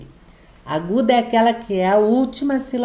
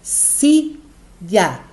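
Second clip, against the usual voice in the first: silla as "si", pause, "lla"; split into syllables. Shown as a demonstration. Teacher showing how she separates it, silla syllable by syllable. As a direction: break silla into two separate beats. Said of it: "olha lá como que eu separo silla".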